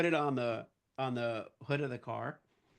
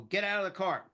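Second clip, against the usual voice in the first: raised, mildly shouted order; police command; 5 semitones higher, 3 dB louder than usual. Retold or imitated. Cops ordering the driver out, mild mock shout. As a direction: imitate a cop calling out an order.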